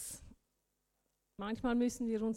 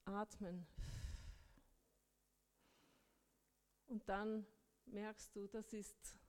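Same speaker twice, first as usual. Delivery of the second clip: soft breathing cue; 9 dB quieter, slower than usual. Shown as a demonstration. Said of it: "Tief ein- und ausatmen".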